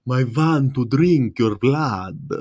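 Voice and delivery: slow, hushed vampire voice; mock vampire. Joking about blood, slow vampire voice. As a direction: drag it out like a cartoon vampire.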